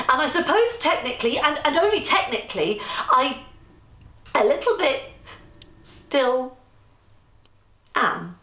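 hesitant, pausing between each word; halting confession. Acted. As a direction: drag out the awkward admission.

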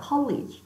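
"college" with the tongue pressed on, then released for the L; clear L. Shown as a demonstration. Teacher demonstrating tongue placement, clearly sounded L in "college". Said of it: "L 발음 나니까 혀를 샥 밑까지 확 붙였다가".

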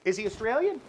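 loud, high disbelieving query; mock-astonished questioning; incredulous question. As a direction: ask in exaggerated bafflement. Acting his puzzled question to writer.

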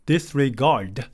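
disregard said at normal speed, stress on the last syllable; model pronunciation. Shown as a demonstration. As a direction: model disregard for the class to repeat. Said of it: "이렇게 발음해요".

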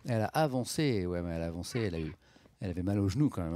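ordinary talk

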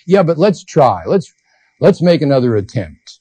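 lightly acted plea to give it a go; mild urging. Socrates urging, acted in dialogue.

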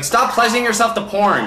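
high mock-scolding girlfriend; girlfriend's voice. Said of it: "And she's like".

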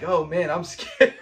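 mock fear through a laugh; laughing scared. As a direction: giggle through a fake fright. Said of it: "he's like".

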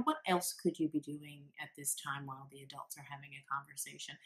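soft, friendly, fast question; matter-of-fact, not sarcastic. Shown as a demonstration. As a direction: parent asking gently during adult talk, soft and matter-of-fact. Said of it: "in a very friendly, matter-of-fact voice".

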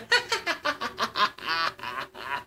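raucous laughter. Acted. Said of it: "bellowed out in a loud, raucous laughter".

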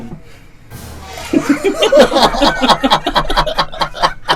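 loud high burst of laughter; laughing burst. Real, not acted. Caught laughing during game.

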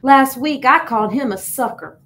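put-on upset boy snapping at himself; snapped. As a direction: bite the words out. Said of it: "Gilbert snapped".

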